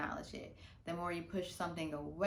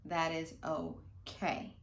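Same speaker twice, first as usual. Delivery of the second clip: slow reassurance; 3 semitones lower, much slower than usual. Shown as a demonstration. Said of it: "if that happens".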